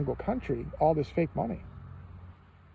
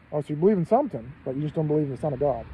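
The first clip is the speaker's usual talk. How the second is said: mock indignant retort; 5 dB louder, faster than usual. Pilate retorting.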